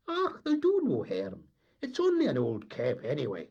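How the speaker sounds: high, loud, indignant Scots deckhand; gruff Scots sailor. Acted. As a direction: bluster it like a Highland tar. The tar's Scots voice.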